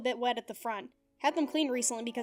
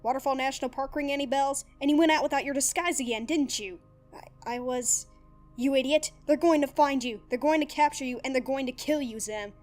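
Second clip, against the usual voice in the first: loud, raised, furious tirade; furious shouting; 3 semitones higher, 7 dB louder than usual. Acted. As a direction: hammer him with every accusation. Dib furiously confronts Zim.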